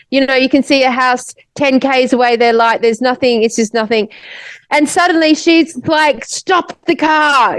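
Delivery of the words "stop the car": higher, slow mock-angry demand; retold angry command. Friend suddenly orders the driver to stop, mildly acted anger. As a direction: imitate her angry order, drawn out. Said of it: "starts talking in a Russian accent, really angry at me".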